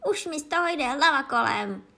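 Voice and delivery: loud, high, exasperated; podrážděný křik. A narrator's reading. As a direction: snap loudly, at the end of patience. Angry queen goes on shrieking. (podrážděně a hlasitě)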